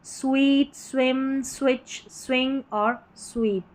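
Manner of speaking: "स्वीट, स्विम, स्विच, स्विंग" with lips rounded into a W after S; word-by-word SW drill on "स्वीट, स्विम, स्विच, स्विंग और स्वीप". Shown as a demonstration. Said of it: "होठ को घुमावदार बना रहा है".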